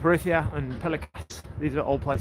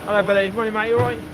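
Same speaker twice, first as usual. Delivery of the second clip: cheery greeting; 5 semitones higher, 6 dB louder, faster than usual. Real, not acted. Greeting passers-by.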